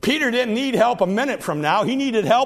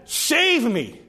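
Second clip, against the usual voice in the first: short cry; 3 semitones higher, much slower than usual. Acted. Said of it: "he just said".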